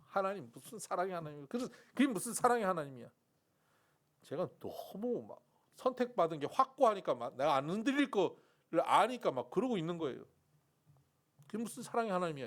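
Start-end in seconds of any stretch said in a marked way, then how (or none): 0.1-3.1 slurred, loud indignant challenge; drunk arguing. Retold or imitated. Drunk seminarian challenging God, indignant. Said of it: "막 따지고". 11.5-12.5 fast mocking challenge; quick taunt. Drunk student taunting God, fast. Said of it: "이러고".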